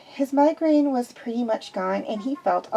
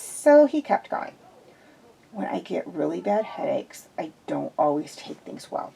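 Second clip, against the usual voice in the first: ashamed apology; 4 semitones lower than usual. Acted.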